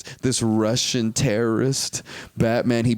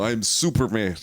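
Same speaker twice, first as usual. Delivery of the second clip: lightly put-on Russian accent; mock Russian accent. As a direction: say it as a hammy Russian superhero. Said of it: "definition of a Russian accent".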